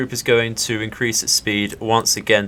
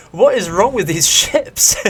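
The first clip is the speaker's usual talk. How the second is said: exasperated laugh; 9 semitones higher than usual. Real, not acted. Gamer laughing at the dud torpedoes, exasperated. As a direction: laugh through the frustration.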